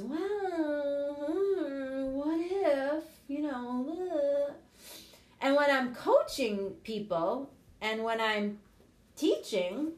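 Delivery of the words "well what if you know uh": doubting inner voice. Retold or imitated. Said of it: "that monkey mind that goes".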